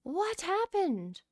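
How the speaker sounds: shocked. Real, not acted. Discovers broken snow globe.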